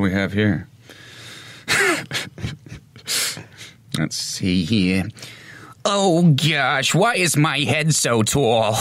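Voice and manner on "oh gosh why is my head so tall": a hint of a fretful lady, slow; lightly voiced woman, puzzled; higher, slow, dainty lady voice. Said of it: "I can do lady voices".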